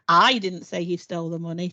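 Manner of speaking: "I" punched at the start, rest even; stress on I. Shown as a demonstration. Showing colleagues how emphasis changes meaning, stress on "I". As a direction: hit the word "I" hard. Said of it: "put the emphasis on a different part".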